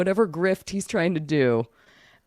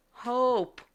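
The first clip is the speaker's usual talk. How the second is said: mock yell; 10 semitones higher, 4 dB quieter than usual. Lady in the back answering the psychic, mock distant yell. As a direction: imitate a yell from far back. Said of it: "And she yells".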